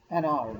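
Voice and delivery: "एन आर" with no H in hour; silent H. Shown as a demonstration. Teacher summing up the article rule, "एन आर" with silent H. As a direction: run "एन" into a vowel-initial "आर", H left silent. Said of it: "pronunciation इसकी ओ से होती है".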